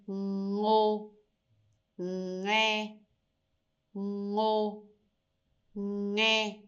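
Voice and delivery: ngo and nge said with the mouth opened first, ng at the start; Vietnamese initial ng. Shown as a demonstration. Teacher drills the initial ng sound for learners, slow and clear. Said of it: "open your mouth first".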